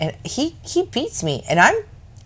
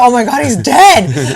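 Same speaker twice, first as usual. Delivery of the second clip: laughing mock panic; 2 semitones higher than usual.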